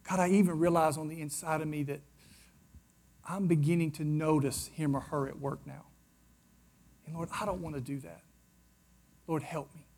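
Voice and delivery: low, very soft private prayer; subdued plea for help; hushed confession. Acted. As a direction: confess it quietly to God, voice dropping away.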